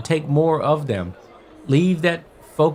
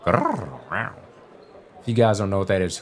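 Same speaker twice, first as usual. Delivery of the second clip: low growling tiger noise; tiger sound; 5 semitones lower, 3 dB quieter, slower than usual. Real, not acted. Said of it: "that's my tiger sound".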